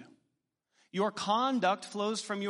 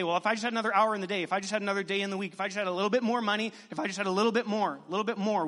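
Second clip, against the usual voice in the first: whiny complainer; much faster than usual. Retold or imitated. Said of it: "We complain".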